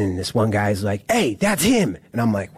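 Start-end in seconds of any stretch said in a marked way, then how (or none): 1.1-2.0 high mock prison holler; retold yell, pitched up; imitated yell. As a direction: call it out like an inmate spotting someone. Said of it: "People are just yelling and screaming".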